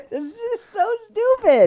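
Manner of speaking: high laugh through the words; laughing scorn. Real, not acted. Host cracking up over the activist's claim, laughing scorn. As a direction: laugh out the insult.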